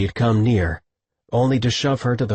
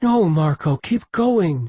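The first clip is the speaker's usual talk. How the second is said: higher, urgent plea; a woman pleading with her hesitant lover; 9 semitones higher, slower than usual. A narrator's reading. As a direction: beg him not to stop. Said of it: "she pleaded".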